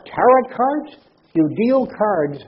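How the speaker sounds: high, loud incredulous question; scornful disbelief. Real, not acted. Skeptic ridiculing tarot fortune-telling to an audience, scornful disbelief. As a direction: scoff at the very idea.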